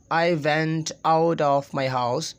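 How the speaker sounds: Pakistani English, slow word-by-word. Shown as a demonstration. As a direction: say each word separately, Pakistani style. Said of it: "as being Pakistani, we will say".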